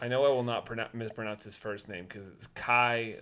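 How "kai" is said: "Kai" said to rhyme with pie; rhymes with sky. Shown as a demonstration. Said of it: "like sky in the pie".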